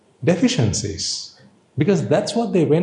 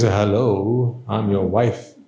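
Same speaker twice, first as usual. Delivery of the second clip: a slightly lower, mock man's voice; male voice; 4 semitones lower, much slower than usual. Wife after a gender change greets her husband in a lightly lowered mock male voice. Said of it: "you say in a male voice".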